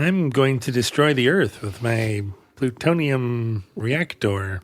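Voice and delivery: hint of a mad-scientist nerd; lightly mock a nerd plotting destruction. Nerd threatening to destroy the earth, mock nerd voice. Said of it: "Why do they talk like that?".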